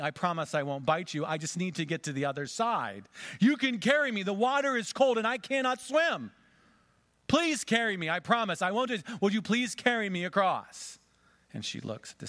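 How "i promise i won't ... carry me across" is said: high, loud begging snake voice; a cunning snake coaxing the girl across; wheedling snake. A narrator's reading. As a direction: plead sweetly like a sly serpent. Snake begs the girl to carry it.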